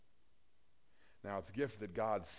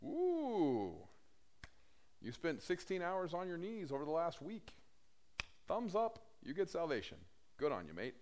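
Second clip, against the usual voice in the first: high, exaggerated cooing approval; mock-impressed God; 6 semitones higher than usual. Preacher mimicking God rewarding long prayer, mock-impressed. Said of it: "God's not like".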